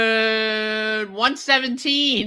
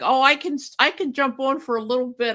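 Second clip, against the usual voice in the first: imitating Jeannie; 6 semitones higher, 4 dB louder, faster than usual. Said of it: "And she's like".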